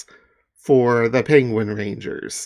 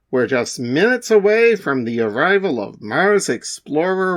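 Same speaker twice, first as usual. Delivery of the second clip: TV announcer. Acted.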